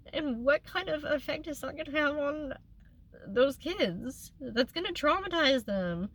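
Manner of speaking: real tearful pleading; crying while talking. Real, not acted. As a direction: push the words out through tears. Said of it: "I don't mean to cry".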